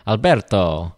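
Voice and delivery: Alberto said with an Italian ber, rolled r and a clear toe at the end; a hint of Italian accent on Alberto; light Italian accent. Shown as a demonstration. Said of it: "hard not to try to do it in an Italian accent".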